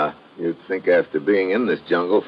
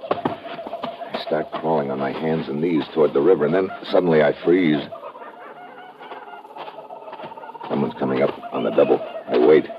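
tough-guy narration. A narrator's reading. Hard-boiled story narration over music.

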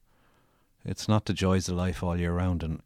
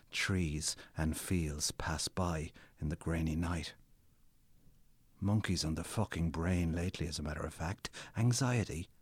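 dramatic story reading. Acted. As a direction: read your own novel like a performance. Author reads his novel aloud.

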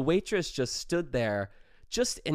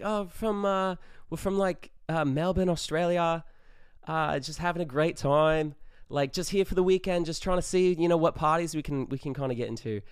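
put-on Australian accent, pitched higher and eager; a hammy Aussie tourist voice; bad Australian accent; 5 semitones higher than usual. Posing as an exchange student to get into a party, bad Australian accent. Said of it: "with our Australian accents".

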